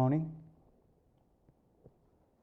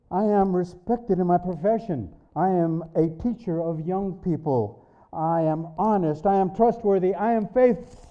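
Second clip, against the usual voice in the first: insistent self-justification; 4 semitones higher than usual. Retold or imitated. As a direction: plead your case with mounting urgency. Frantic self-justifying reply to God, building.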